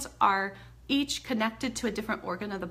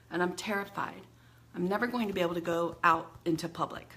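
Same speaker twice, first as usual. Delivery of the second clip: demo venting; 3 semitones lower than usual. Shown as a demonstration. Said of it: "I'm just venting".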